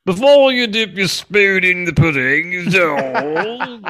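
high, mumbling comedian impression; comic sitcom-dad voice; Bill Cosby. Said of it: "Bill Cosby comes like the".

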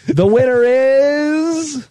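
slow drawn-out suspense; suspenseful awards presenter. Pretend. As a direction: stretch it out before the reveal. Mock awards show announcement.

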